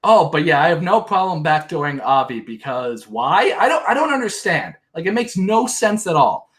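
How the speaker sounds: high exaggerated whine of disbelief; mocking Christy. Mocking Christy's logic to viewers in a high whine. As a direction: lampoon her double standard. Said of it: "she says".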